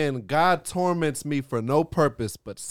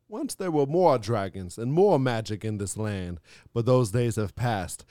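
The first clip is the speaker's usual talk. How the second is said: epic fantasy narration. Acted. High fantasy genre parody.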